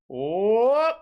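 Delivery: long whoop sliding upward; imitated slide-whistle style "whoop"; rising showman's whoop; magician's whoop. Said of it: "and then he goes".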